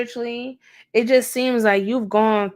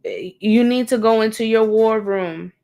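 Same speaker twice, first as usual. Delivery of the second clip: louder, firm and commanding; firm wake-up call; 6 dB louder than usual. Acted. Stern wake-up call to viewer.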